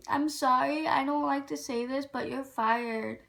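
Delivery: imitating a smug boss with a small snicker; mock-apologetic, firing someone through a smirk; fake-sorry, drawing out the final words. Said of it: "she was smirking the whole fucking time".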